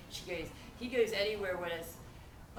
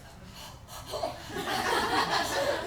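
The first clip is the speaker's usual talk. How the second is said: voiceless gasps, imitating fright; acted loss of breath from a scare; scared breathless gasping. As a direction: gasp as if too scared to talk. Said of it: "I just stood there like this".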